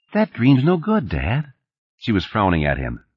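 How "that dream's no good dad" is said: higher, lightly voiced child; a little girl's mild complaint; protesting daughter. A narrator's reading. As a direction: object like a small kid at bedtime. Small daughter objects to father's dream.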